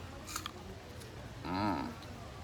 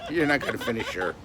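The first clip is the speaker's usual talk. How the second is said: laughing; 5 semitones higher than usual. Real, not acted. Teasing pet while laughing.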